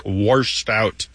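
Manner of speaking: "washed" said as worshed; intrusive R. Shown as a demonstration. Host illustrating creek talk in dialect, "washed" with an added R. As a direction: put an R before the sh in "washed". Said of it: "known to linguists as the intrusive R".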